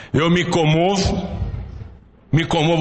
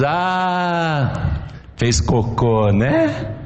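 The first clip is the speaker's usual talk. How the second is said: put-on mother talking to baby; much slower than usual. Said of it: "Ela diz".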